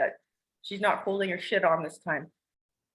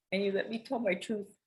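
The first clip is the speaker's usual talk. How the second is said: softer, voice catching in tears; tearful; 5 dB quieter than usual. Real, not acted. Thanking Elijah for listening, softly crying. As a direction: hold back the tears as you say it.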